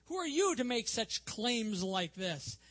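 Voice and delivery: rejecting challenge. Acted. Religious leaders questioning Jesus's claims, rejecting. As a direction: challenge their right to speak. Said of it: "That seems to be the attitude".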